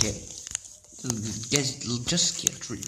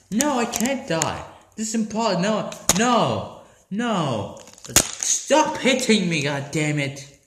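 protest; 2 semitones lower than usual. Real, not acted. Player being hit.

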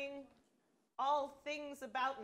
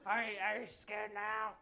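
low menace; 4 semitones lower than usual. Acted. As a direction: try to sound scary, low. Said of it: "the tone of your voice".

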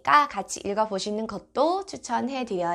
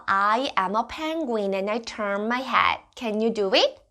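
put-on reading to a toddler; much slower than usual. Shown as a demonstration. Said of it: "문장 표현 한번 살펴볼게요".

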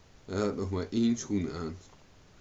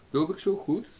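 questioning; 11 semitones higher, 4 dB louder than usual. A narrator's reading. Owen asks the boy the way.

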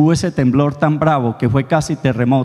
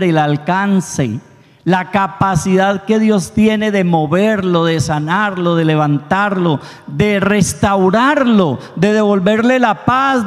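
slow, rising preacher's appeal; fervent preaching; 3 semitones higher than usual. Acted. Priest urges his congregation to come near to God, fervent. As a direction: urge the congregation to draw near.

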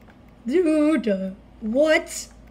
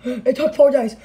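excited exclaiming. Real, not acted. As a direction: proclaim it in triumph. Exclaiming the effort.

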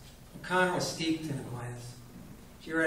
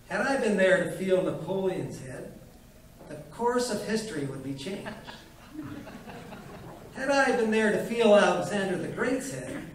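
loud, higher, swelling boast; grand boasting old man; 5 semitones higher, 5 dB louder than usual. Acted. Old doctor boasting to the widow, grandly. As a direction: build the claims up grandly.

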